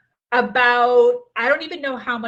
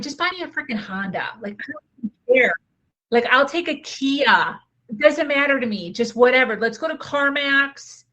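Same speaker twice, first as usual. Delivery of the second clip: higher, louder, quick exasperated brush-off; exasperated retold reply; 4 semitones higher, 5 dB louder than usual. Telling her partner any cheap car will do, exasperated. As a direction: toss it off like you truly don't care.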